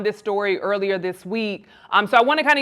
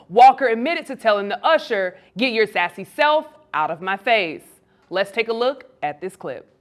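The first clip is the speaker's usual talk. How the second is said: entertainment news presenter; scripted host delivery; news read. A narrator's reading. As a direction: read it as a measured, articulate news report. Reads the news story.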